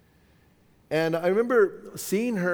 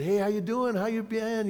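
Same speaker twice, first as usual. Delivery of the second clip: higher, friendly mock phone greeting; trying to be nice; 4 semitones higher than usual. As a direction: act out an effort to sound nice. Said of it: "trying to be nice to her".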